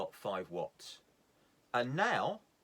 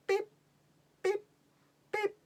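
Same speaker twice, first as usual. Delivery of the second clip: imitated beeps; 4 dB louder than usual. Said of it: "making some noises".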